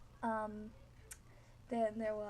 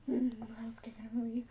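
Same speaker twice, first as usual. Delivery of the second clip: slow breathy whispered fright; hushed shaken confession; scared whisper; 4 dB louder, much slower than usual. Retold or imitated. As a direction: whisper it like still spooked.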